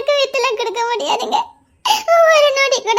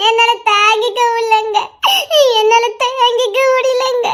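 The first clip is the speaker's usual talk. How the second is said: crying. Acted. Wife crying her hurt.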